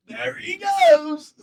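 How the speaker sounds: slow, high Southern catchphrase after a bomb; Southern accent catchphrase. Retold or imitated. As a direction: toss it off in a Southern drawl. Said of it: "one of his catchphrases".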